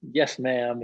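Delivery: sweet earnest. Retold or imitated. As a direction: give "Yes, ma'am." like an eager-to-please kid. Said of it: "the sweet, earnest".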